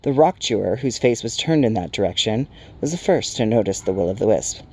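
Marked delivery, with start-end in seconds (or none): none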